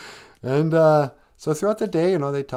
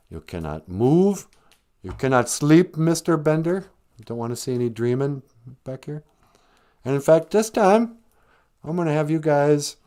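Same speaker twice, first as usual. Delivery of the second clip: lightly voiced stern principal, rising to a louder "who do you think you are"; mock principal; 3 semitones higher, 4 dB louder than usual. Principal lecturing the kids in detention, lightly mocking. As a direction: play the principal scolding the detention kids, half-hammed. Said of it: "the principal's there and he's like".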